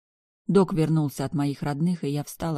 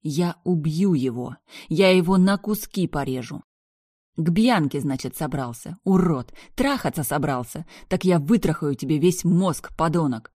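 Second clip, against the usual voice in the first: furious revenge rant; vengeful fury; 4 dB louder than usual. Acted. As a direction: threaten with rage.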